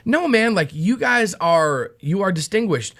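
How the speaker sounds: a touch of sarcasm, voice up a bit; mock-praise with a slight dig; lightly sarcastic imitation of Paul; snarky Paul. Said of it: "is he digging".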